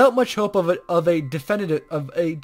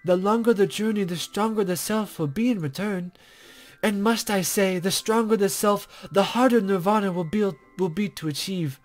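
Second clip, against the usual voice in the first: a hint of a coy, teasing sage; lightly voiced mysterious guide; 5 semitones higher than usual.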